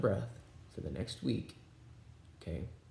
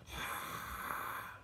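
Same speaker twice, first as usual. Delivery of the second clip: throaty constricted breath; Darth Vader breath; 6 dB quieter than usual. Shown as a demonstration. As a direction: breathe through a tight throat. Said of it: "make your Darth Vader voice".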